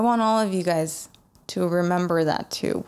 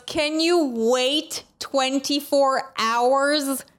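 friend's teasing voice; 6 semitones higher, slower than usual. Retold or imitated. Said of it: "she goes".

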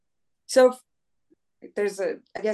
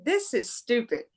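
whiny complaint; 3 semitones higher, slower than usual. Retold or imitated. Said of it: "I'm like".

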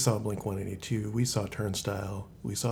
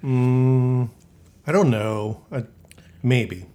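rough, hoarse throat; a scratchy sick voice; 2 semitones higher, 7 dB louder, slower than usual. Real, not acted. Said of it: "You sound like a different Cody".

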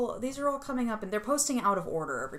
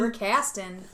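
showy; 4 dB louder, slower than usual. Acted. Repeated line, different delivery.

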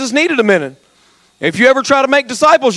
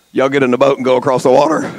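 plain command; 8 semitones lower, faster than usual. Retold or imitated. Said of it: "he told them".

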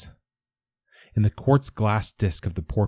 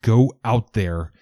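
loud frantic shout, rising higher; yell; 6 semitones higher, 6 dB louder than usual. Acted. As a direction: scream the order in rage. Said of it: "I yell".

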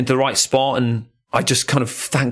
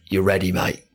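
put-on lower, casual London accent; a cheeky London accent, lower and easy; Jack's London accent; 5 semitones lower than usual. Mate at the big surf spot, in a London accent. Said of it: "with his London accent".

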